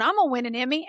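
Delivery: put-on emphatic childlike vow; prophesying child. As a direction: imitate a child announcing it to everyone. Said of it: "walk around prophesying that".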